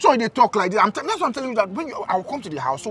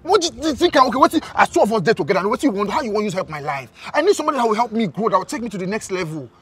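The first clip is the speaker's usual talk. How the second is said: exasperated; 3 semitones higher, 4 dB louder than usual. Acted. Exasperated boyfriend argues she can't help.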